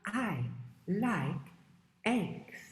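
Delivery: words spaced out one by one; gloating fox. Acted. Missus Fox gloats over the eggs, separated words. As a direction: savour each word as the fox. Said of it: "goes with the eggs and says".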